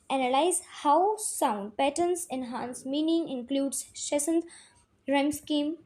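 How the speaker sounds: slow, deliberate reading of notes; slow dictation reading. Acted. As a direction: read it out slowly so the class can copy. Reads English definitions slowly.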